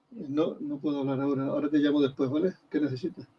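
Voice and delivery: hushed aside into the phone; whispering on the phone. Real, not acted. Takes a phone call mid-lecture.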